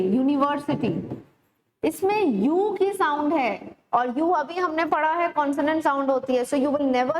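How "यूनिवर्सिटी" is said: यूनिवर्सिटी opening on a clear consonant "yoo"; teacher shows the "yoo" at the start of यूनिवर्सिटी; yoo sound demo. Shown as a demonstration. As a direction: say यूनिवर्सिटी as "yoo-ni-ver-si-ty", not "oo". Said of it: "यूनिवर्सिटी pronounce करके देखिए".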